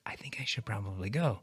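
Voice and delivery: soft, low near-whisper; Josie. Acted. Guest plays his date excusing herself, hushed near-whisper. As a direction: murmur it awkwardly, wanting to leave. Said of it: "And Josie's like".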